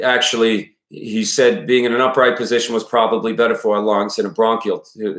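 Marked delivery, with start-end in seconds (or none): 0.0-0.8 put-on father's lines in a wobbly Maine accent; Maine accent slipping into Boston. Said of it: "when I do this accent". 1.7-5.2 put-on Maine father drifting into a Boston accent; Maine accent slipping into Boston. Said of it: "I start going into Boston".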